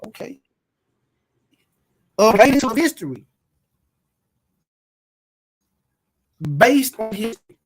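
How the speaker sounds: crackly distorted microphone; distorted mic. Real, not acted. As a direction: voice breaking up through a bad mic. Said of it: "Your mic, your mic is distorted".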